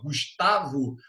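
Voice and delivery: "Gustavo" with the stress on TA; stress on the middle syllable. Shown as a demonstration. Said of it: "a sílaba tônica do meu nome tá no tá". ("Gustavo" com a tônica no TA)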